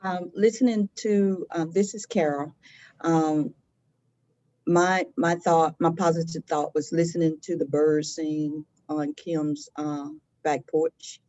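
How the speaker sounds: distant off-mic voice; turned away from mic. Real, not acted. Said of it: "since you're off mic".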